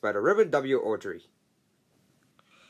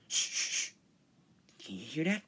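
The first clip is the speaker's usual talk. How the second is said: soft, hushed listening; hushing; 4 semitones higher, 7 dB quieter than usual. Acted. Engine hushing a friend to listen, hushed. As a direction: hush them to hear a sound.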